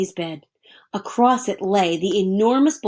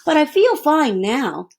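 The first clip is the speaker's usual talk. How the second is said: put-on boy; 7 semitones higher, 6 dB louder than usual. A narrator's reading. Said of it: "Stanley Lambchop said".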